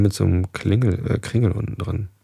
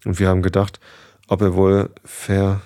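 measured read-aloud storytelling voice; story narration. Acted. Narrator reads a goose tale to listeners, story narration.

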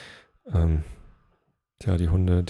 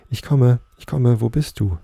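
higher, lightly voiced answering call; calling back; 5 semitones higher, 9 dB louder than usual. A narrator's reading. Dog answering the elk's call in a story, calling back. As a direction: call back as a dog searching, within narration. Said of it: "antwortete der Hund".

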